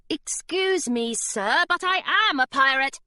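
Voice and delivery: put-on prim girl insisting; Hilary insisting to the pirate guard; young girl voice. A narrator's reading.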